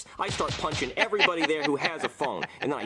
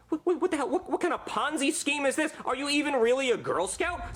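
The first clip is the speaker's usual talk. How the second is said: outraged; 11 semitones higher than usual. Retold or imitated. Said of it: "I'm like".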